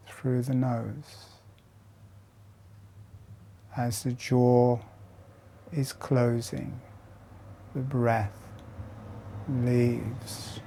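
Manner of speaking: guided meditation. Acted. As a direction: lead them gently through each breath. Guides slow jaw breathing exercise.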